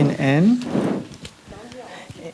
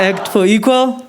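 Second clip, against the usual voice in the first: rallying call; 5 semitones higher than usual. Real, not acted. Leading crowd in call and response.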